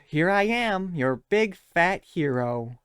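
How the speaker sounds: slow, hammed-up self-proclaimed hero; lightly voiced grand announcement; a hint of smug swagger; mocking Jinx. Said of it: "Jinx goes".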